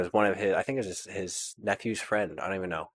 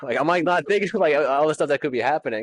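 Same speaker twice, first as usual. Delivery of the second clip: laughing disbelief; 7 semitones higher, 6 dB louder than usual. Real, not acted. Recalling shock, laughing.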